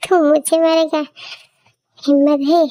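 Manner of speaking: mocking laugh. Thug mocks hero's threat.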